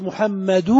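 محمد ending in an open "-du"; last vowel, no nun. Shown as a demonstration. Teacher asking for the last vowel, محمد ending in "-du". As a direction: say محمد with a held final u and no n. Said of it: "آخر حركة عندنا ماذا".

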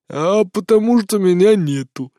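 put-on slow, slurred drunken reply. A narrator's reading. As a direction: play it drunk, slow and loose. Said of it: "икнул и пьяно засмеялся".

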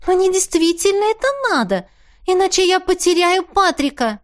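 высокий отчаянный голос; выше, с надрывом просьбы; Теа упрашивает. A narrator's reading. (Теа выше, отчаянно)

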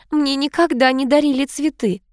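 put-on high, girlish pleased tone; delighted. A narrator's reading. Niece given flowers for the first time, delighted. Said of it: "обрадовалась племянница Энн".

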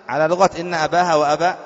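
normal talking voice

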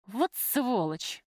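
langsam, gedehnt geschimpft; fluchend. Acted. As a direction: jedes Wort ausspucken. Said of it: "выругалась Любка".

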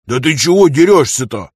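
hammed-up wounded grievance; feigned hurt. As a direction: complain as if pretending it hurt. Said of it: "сделал вид, что ему больно".

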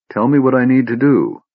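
steady, determined demand; insist, no room for doubt; firm. Acted. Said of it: "Laurana said firmly".

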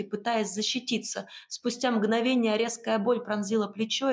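ordinary delivery, nothing marked

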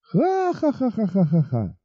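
high drawn-out mocking laugh; loud laughter. Бет высмеивает предложение Уилла, high mocking laugh. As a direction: laugh slowly in his face. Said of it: "громко расхохоталась".

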